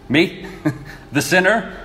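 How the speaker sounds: laughing disbelief. Acted. Peter, chosen to preach, laughing in disbelief. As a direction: laugh at the idea of being chosen. Peter amazed at his calling.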